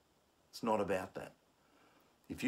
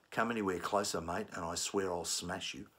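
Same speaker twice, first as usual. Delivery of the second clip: threatening; 2 semitones lower than usual. Shown as a demonstration. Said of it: "threaten you".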